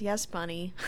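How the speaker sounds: slightly deflated, resigned reply. Acted. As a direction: give in with a little sag. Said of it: "Just, like, deflated".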